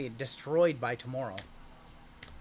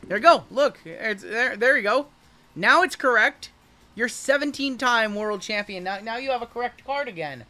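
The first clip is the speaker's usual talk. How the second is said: playful gloating; 5 semitones higher, 5 dB louder than usual. Real, not acted. Jokingly "fixing" the card.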